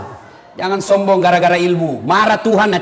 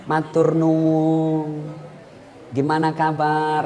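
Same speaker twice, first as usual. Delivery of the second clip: polite soft greeting; 5 semitones lower, 7 dB quieter, much slower than usual. Shown as a demonstration. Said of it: "halus tutur katanya".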